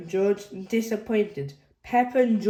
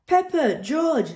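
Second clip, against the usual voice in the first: high, louder calling of names; 8 semitones higher, 4 dB louder than usual. A narrator's reading. Mummy Pig calling the jumping children, high call. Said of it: "says Mummy Pig".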